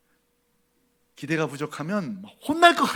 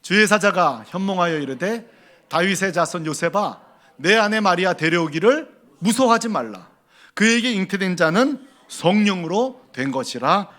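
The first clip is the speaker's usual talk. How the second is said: loud, steady unison reading of scripture; louder congregational recital, slowing at the end; reading scripture aloud together; 6 dB louder than usual. Shown as a demonstration. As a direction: read the verse out loud with the whole church. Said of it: "다 같이 시작".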